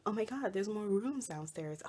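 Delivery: lightly imitated curious visitors; a touch of mock amazement; mild excited discovery. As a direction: retell their surprise at an easier pitch. Repeats the visitors' line more calmly.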